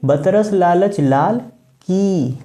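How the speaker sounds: slow line with "की" set apart at the end; stress on final sound. Shown as a demonstration. Teacher points out the rhyme, final "की" isolated. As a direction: pause before "की" and hold its long ee. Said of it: "last में क्या आ रहा है?".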